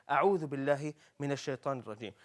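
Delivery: "أعوذ بالله من الشيطان الرجيم" spoken quickly as one connected phrase; model pronunciation. Shown as a demonstration. Teacher summing up how we say it, quick connected phrase. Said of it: "This is how we say".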